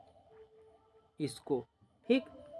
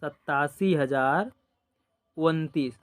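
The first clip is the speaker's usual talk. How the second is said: slow reading; 4 dB louder, slower than usual. Shown as a demonstration. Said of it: "इसको ऐसे पढ़ेंगे हम लोग".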